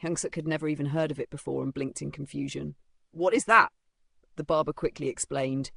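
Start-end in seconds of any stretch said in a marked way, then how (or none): 3.1-3.7 confused. Acted. Confused customer asks loudly.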